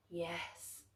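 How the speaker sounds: a cold hushed yes; the dark's voice. A narrator's reading. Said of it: "The voice of the dark was as creaky".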